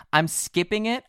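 out of breath, rising at the end; puffing between the words; after a workout. Real, not acted. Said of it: "I'm catching my breath".

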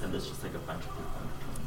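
distant, off-mic voice; far from mic. Real, not acted. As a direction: speak from across the room. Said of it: "I'm gonna step away from the mic".

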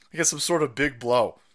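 normal talking voice

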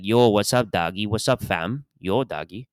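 lightly imitated Toronto patois-style slang; mock Toronto slang accent. Kid outside Hasty Market greeting friends, mock Toronto slang accent. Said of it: "mistake the Toronto accent".

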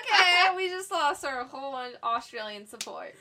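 high, loud laughing lament; loud mock despair breaking into laughs; laughing mock dismay. Joking after roasting Australia, both laughing.

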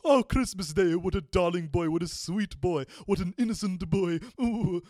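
overjoyed Scrooge. Retold or imitated. Scrooge man gushing over the boy, overjoyed and loud. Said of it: "like Ebenezer Scrooge at the end of A Christmas Carol".

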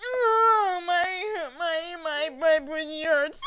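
high, loud, drawn-out whine; mock pained wailing. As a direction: wail it out, hammed up in pain. Acts own wailing after burn.

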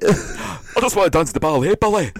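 put-on high, loud Scottish boy's plea; mock Scottish accent. Quoting Billy Elliot line, loud high Scottish accent. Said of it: "Scottish accent".

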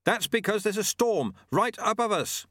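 high-pitched alarmed cry, restrained volume; screaming. A narrator's reading. Apprentice to sweeper under a storm in flight, screaming. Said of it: "screamed Lobsang".

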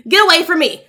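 mean retold snap. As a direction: imitate him angrily shooing everyone off. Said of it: "he was so mean".

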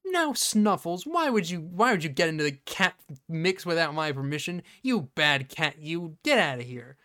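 lightly voiced owner telling off a naughty cat; half-hearted, fussy scolding; mock pet scolding.

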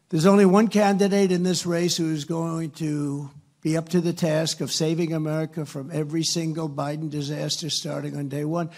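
usual speaking voice

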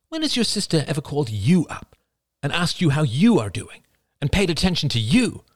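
high, exasperated mother voice; upset mother. Acted. Mother complaining to her son about her sister, high and exasperated.

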